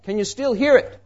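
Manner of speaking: high-pitched call from down the hall. Retold or imitated. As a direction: call it out as if from far off, without really shouting. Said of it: "and called out".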